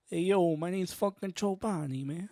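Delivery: lightly voiced movie tough guy; a hint of a character impression; Joe Pesci. Comic pretending to be a movie actor named after yogurt, lightly impersonated. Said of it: "pretend I'm Joe Pesci for a second".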